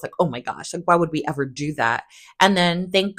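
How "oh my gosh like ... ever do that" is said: mock pearl-clutching. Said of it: "clutching her pearls".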